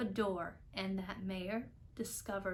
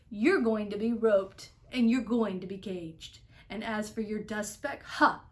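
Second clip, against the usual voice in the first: threatening; 5 dB louder than usual. Acted. Kangaroo threatens Horton.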